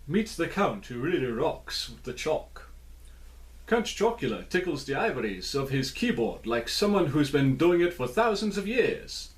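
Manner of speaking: a hint of Transylvanian vampire in the reading; Transylvanian accent. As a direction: read the blurb in a light Transylvanian count accent. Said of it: "my Transylvanian accent".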